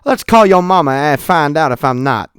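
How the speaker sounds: loud challenge, calling the bluff; acted scolding retort. Lady threatens to call his mama, mock scolding. Acts lady's retort in argument.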